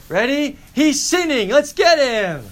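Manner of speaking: loud, high battle cry; rally the gang to pounce; rallying shout. Acted. Acting out Hamlet launching his attack.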